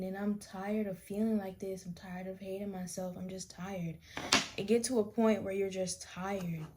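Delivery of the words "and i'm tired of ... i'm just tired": soft, breathless whisper of exhaustion; weary whisper. Retold or imitated. Remembering self-hatred, whispering how tired she was. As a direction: let it sink to a tired whisper. Quoting her own despairing thoughts.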